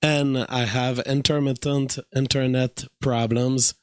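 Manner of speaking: tired voice with little power; weak voice. Real, not acted. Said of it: "my voice is super weak today".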